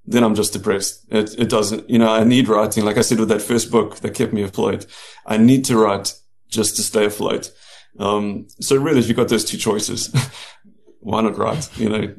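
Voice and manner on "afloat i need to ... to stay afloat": faint New Zealand vowel in afloat; hint of New Zealand accent. Real, not acted. Author telling interviewer why he writes, hint of New Zealand accent. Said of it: "a little bit of New Zealand".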